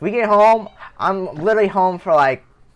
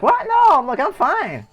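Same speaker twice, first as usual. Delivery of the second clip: tag; 11 semitones higher than usual. Retold or imitated. Retold startled denial to friend's parents.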